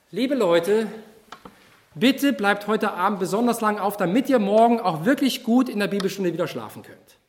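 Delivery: mock-earnest advice, tongue in cheek; sarcastic youth leader; ironic. Shown as a demonstration. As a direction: say it as if you mean the opposite. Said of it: "Das ist Ironie".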